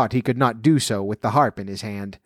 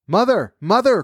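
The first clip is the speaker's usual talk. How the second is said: urgent cry, much higher; 9 semitones higher than usual. A narrator's reading. Jack calling his mother as the giant climbs down, urgent high cry. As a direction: call out to mother in a hurry. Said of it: "cried Jack".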